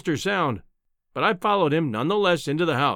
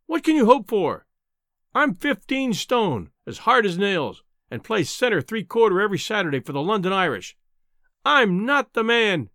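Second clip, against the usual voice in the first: crying out; 4 semitones higher than usual. Acted. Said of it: "I cried".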